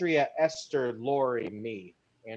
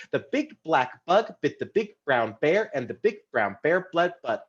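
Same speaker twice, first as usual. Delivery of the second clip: a little faster. Shown as a demonstration. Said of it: "A little faster".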